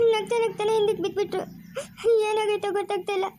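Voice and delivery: choking up while telling what happened; tearful panic. Acted. Wife tells nephew of the collapse, tearful. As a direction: voice catching with tears as she explains.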